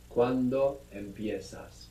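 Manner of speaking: ¿Cuándo empiezas? modelled slowly, stress on cuándo; slow model question. Shown as a demonstration. Tutor to student, slow clear model. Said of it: "Very good".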